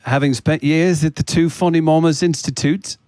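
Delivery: put-on formal British accent; courteous, comic British accent. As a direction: make a mock speech in British English. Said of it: "saddling me with the British accent".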